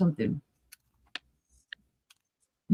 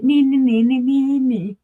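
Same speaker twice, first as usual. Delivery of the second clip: gloating taunt; 5 semitones higher, 4 dB louder than usual. Real, not acted. Gloating over finding the spoon.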